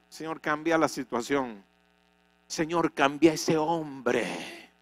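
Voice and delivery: soft, slow complaining prayer; mock whiny prayer. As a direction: mimic the lazy believer's plea. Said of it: "Yo que quería seguir orando igual". (oración quejosa de burla)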